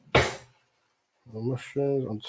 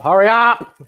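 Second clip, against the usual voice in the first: loud high yell; shouting; 10 semitones higher, 10 dB louder, slower than usual. Real, not acted. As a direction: shout at it to hurry. Louder second take.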